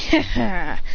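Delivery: short mock laugh; light, put-on laugh; acted chuckle. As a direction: chuckle smugly in character. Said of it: "chuckle and say".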